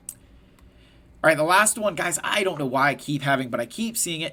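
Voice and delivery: loud, exasperated opening burst. Real, not acted. Streamer fed up with a recurring modding mistake, exasperated. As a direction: launch into a fed-up rant. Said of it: "it keeps infuriating me".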